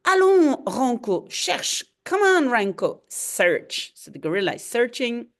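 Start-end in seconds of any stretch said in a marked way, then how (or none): 0.0-3.9 commanding. Acted. Villain commanding gorilla.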